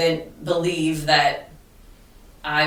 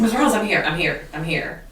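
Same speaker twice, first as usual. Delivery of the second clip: imitated eager student; faster than usual. Student who runs down the hallway to teacher's room, mildly excited. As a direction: lightly imitate an eager kid reporting in.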